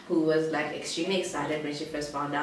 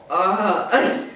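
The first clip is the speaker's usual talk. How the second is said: loud exasperated groan; retold groan of frustration; 2 semitones higher, 7 dB louder than usual. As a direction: let out a fed-up "oh". Groan at stubborn boyfriend.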